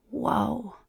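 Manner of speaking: a soft, impressed whoa; a hushed breath of wonder; appreciative. A narrator's reading. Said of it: "he says appreciatively".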